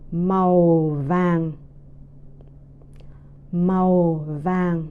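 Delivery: slow "Màu vàng", both words low and falling; two falling tones. Shown as a demonstration. Teacher drilling yellow for repetition, two low falling tones. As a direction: let "Màu" and "vàng" each sink, drawn out. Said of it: "two second tones together".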